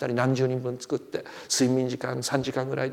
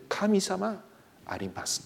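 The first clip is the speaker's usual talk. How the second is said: Japanese with an odd American lilt, lightly done; American accent; 6 semitones higher, much slower than usual. Retold or imitated. Missionary speaking broken Japanese to the young bride, with a light American lilt. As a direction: mimic the missionary's foreign intonation. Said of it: "変わったアメリカ人のイントネーションで".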